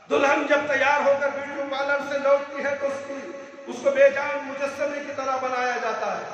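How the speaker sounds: insistent sermon delivery on a steady pitch; emphatic preaching. Real, not acted. Preacher decries a made-up bride's restrictions, emphatic preaching. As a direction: list each prohibition with mounting indignation. Preaches against bridal makeup customs.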